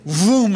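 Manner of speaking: quick drawn-up whoosh of a vroom; zooming vroom. Retold or imitated. Preacher describing a player shooting down the court, zooming vroom. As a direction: imitate someone zooming off.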